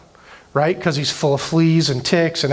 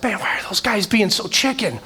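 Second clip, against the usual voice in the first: higher-pitched, mock incredulous questioning; retold incredulity; 6 semitones higher than usual. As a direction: replay your younger self's disbelief. Retold youthful disbelief at scared soldiers.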